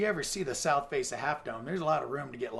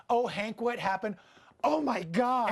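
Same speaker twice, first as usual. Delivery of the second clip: alarmed parents; 6 semitones higher than usual. Retold or imitated. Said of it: "All these parents would run out going".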